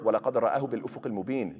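very fast run through the verse; rapid recitation. Shown as a demonstration. Teacher citing the next verse, rapid recitation. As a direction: race through the Arabic verse.

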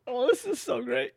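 very high squeaky helium voice; delighted helium squeak. Real, not acted. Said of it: "found a helium tank".

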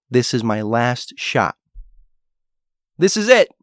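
a cornered hero throwing everything in; desperate last stand. Retold or imitated. Hero at breaking point, voicing a final desperate cry.

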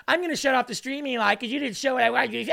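mock crybaby voice.

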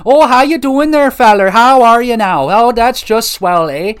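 loud, high-pitched, hammed-up Minnesotan-Canadian accent. Game reviewer imitating the side characters, exaggerated Minnesotan and Canadian accent. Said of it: "they got that classic, oh, Minnesotan and Canadian accent there".

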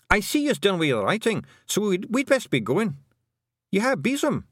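high, rough Scottish little man murmuring in awe; a wee Scots Feegle marvelling at writing. A narrator's reading. Feegles watching Tiffany write, awed Scots murmur. Rob Anybody asks.

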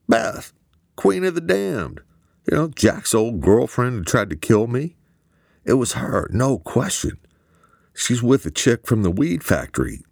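put-on high, urgent, panicky young man; agitated Eamon. A narrator's reading. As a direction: rattle it off keyed up and scared.

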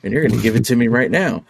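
angry clown threat. Retold or imitated. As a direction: snarl it like the killer clown wanting the car. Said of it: "he's like".

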